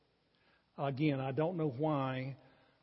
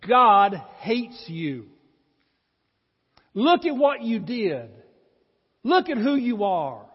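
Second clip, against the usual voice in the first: slow, much louder and higher taunting accuser; a hammed-up Satan, loud and slow, condemning the listener; accusing Satan voice; 7 semitones higher, 13 dB louder, slower than usual. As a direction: drag out each cruel word like the devil gloating. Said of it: "in this still small voice".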